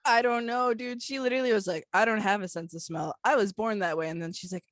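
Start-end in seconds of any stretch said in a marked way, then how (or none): 1.9-4.1 lower, understated retold deadpan. Quoting the girl with no sense of smell, deadpan. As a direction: repeat it deadpan, as the stranger said it. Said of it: "She goes, deadpan".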